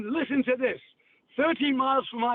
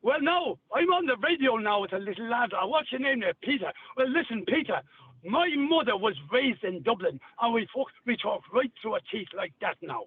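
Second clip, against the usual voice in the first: Dublin Irish, talking through the teeth; Irish accent. Shown as a demonstration. Chatting to lad Peter on radio, Dublin Irish accent.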